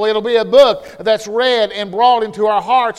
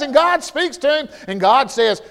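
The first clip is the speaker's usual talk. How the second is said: ordinary delivery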